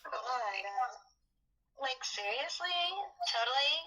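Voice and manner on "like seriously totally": put-on upspeak Valley girl lilt, like totally; Valley girl accent. Friends teasing in a mock Valley girl accent. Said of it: "What valley accent?".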